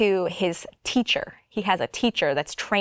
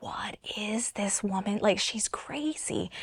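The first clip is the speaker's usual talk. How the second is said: hushed whisper, much softer and slower; inner whisper; 9 dB quieter, slower than usual. Retold or imitated. Thinking about the woman pressing her chest, hushed whisper. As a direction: whisper it like a secret thought.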